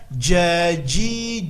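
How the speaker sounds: a deliberately wrong "jajijubaj"; wrong jim. Shown as a demonstration. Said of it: "Kesalahannya adalah". ("jajijubaj" salah, ujung lidah ke langit-langit)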